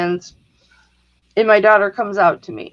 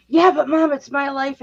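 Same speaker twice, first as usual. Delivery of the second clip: high whiny imitation of a rebellious teen; mock teen protest; 5 semitones higher than usual. Mother imitates daughter's planned protest, mock whiny teen. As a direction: mimic the protest speech she must have rehearsed. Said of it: "she must have planned this huge".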